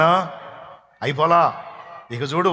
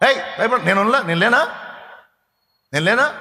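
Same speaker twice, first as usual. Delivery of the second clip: reassuring parent; 5 semitones higher than usual. Retold or imitated. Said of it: "మనం".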